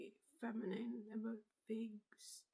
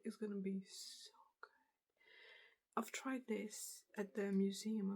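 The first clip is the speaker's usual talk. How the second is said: ASMR whisper. Real, not acted. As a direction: breathe the words out gently.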